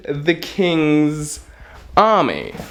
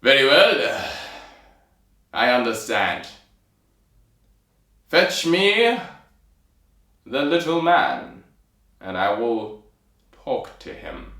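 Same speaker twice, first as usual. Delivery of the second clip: king's voice. Acted. King answering his soldiers' ultimatum, measured kingly voice. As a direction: play a weighty king giving orders. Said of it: "in his accent, which I've forgotten".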